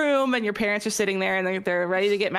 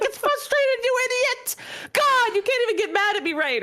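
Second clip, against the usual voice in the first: much higher, laughing, mock exasperated comeback; laughing mock retort. Teen imagining correcting mom mid-scolding, laughing mock exasperation. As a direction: blurt it out half laughing like a cheeky teen. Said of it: "trying not to be like".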